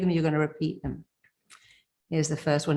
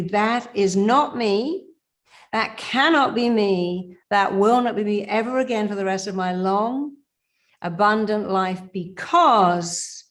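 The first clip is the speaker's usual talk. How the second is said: conviction affirmation; 3 semitones higher, 3 dB louder than usual. Shown as a demonstration. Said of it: "Do it with power and conviction".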